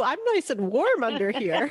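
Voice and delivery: slow, muffled as if behind a mask. Pretend. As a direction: talk slowly through a covered mouth. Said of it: "I don't care if I sound muffled to you".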